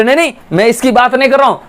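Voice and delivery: mock angry protest. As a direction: rush it out, the offended customer. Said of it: "गुस्सा आ गया उसको".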